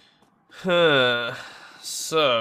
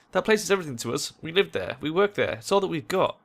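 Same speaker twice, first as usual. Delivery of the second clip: higher-pitched, earnest plea; pleading shop worker; 4 semitones higher than usual. Acted. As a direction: plead for the home and livelihood.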